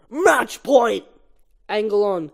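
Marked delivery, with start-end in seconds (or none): 0.1-1.1 higher, louder cocky call; overconfident. Acted. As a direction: announce it smugly. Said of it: "Ken, overly confident".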